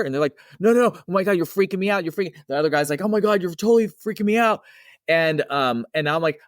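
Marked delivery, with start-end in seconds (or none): 0.6-2.3 high, fast, frightened yelp of a spooked coworker; retold panicked cry. Coworkers panicking about a ghost. 3.0-4.6 high, fast, spooked exclamation; retold freaked-out cry. Second coworker spooked.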